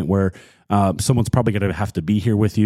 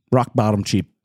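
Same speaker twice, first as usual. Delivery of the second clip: used car salesman. Pretend. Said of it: "I sound like a used car salesman".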